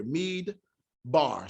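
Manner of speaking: Mead, a stop, then Bar; stop between syllables. Shown as a demonstration. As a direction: pause after Mead before Bar. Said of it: "there's a stop here".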